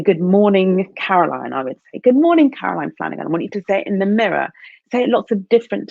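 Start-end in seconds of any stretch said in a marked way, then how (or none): 2.0-3.3 cheerful greeting. Shown as a demonstration. Greeting herself in the mirror, bright and excited. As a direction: greet yourself like you're delighted to see you.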